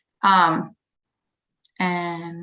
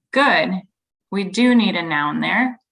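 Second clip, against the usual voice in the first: upbeat, louder praise to a student; encouraging teacher praise; 2 semitones higher, 5 dB louder than usual. Shown as a demonstration. Teacher praising a student's right part of speech, encouraging. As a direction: cheer the student on warmly. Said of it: "I say something like".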